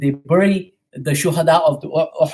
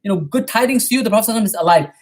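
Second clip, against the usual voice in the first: raised, higher call of good news; retold shout; 4 semitones higher, much faster than usual. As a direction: call it out to the crowd, a touch lifted. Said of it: "he shouts out and says".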